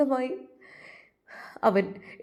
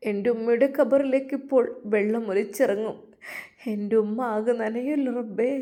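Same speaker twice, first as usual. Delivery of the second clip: tearful prayer. Acted. Son prays for his mother.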